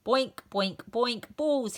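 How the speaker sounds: loud boinking bellow; dazed teacher bellowing. A narrator's reading. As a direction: bellow it as balls bounce off him. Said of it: "he bellowed".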